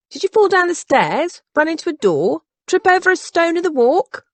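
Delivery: high, insistent string of questions; badgering. A narrator's reading. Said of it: "Dora could badger a saint".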